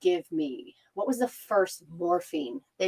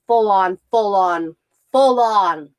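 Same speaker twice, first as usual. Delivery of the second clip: "full on" punched louder each time; emphatic repetition; 7 dB louder, slower than usual. Real, not acted. Woman stressing how long labor lasted, emphatic "full on". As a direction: hammer each "full on", building in force.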